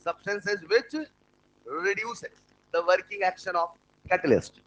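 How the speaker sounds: dictating word by word, very slow; very slow dictation. Shown as a demonstration. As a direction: spell it out slowly for note-taking.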